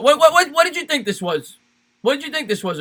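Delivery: high, stammered what what what; mock disbelief. Real, not acted. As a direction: act floored by the question. Mock outrage at a viewer.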